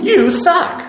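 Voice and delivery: high, mocking voice of a bowl, laughing; mock sassy pottery. Teacher voicing a pot mocking its maker, high and laughing. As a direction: play the rude pottery insulting its maker. Pottery talking back in car.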